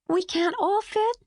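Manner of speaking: put-on a touch of letdown in a high little girl's voice; child's small letdown, understated; mildly disappointed. A narrator's reading.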